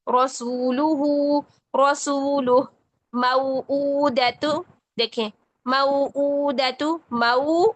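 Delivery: slow drawn-out Arabic words, each with a pause; slow Quran recitation. Shown as a demonstration. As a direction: recite each word slowly for students. (धीमी तिलावत की मश्क)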